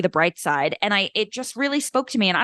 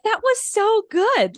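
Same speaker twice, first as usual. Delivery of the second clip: slow, raised, laughing; laughing gush; 11 semitones higher, slower than usual. Retold or imitated. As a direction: giggle through the praise. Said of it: "kept looking at each other like".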